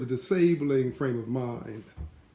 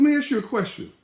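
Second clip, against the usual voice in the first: pointed question; 3 semitones higher than usual. Retold or imitated. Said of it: "He said".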